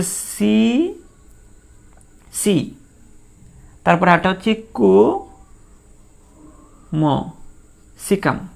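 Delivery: slow, broken into syllables. Shown as a demonstration. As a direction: spell it out slowly, syllable by syllable. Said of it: "আমরা এইভাবে বলতে পারি". (ধীরে ধীরে ভেঙে ভেঙে বলা)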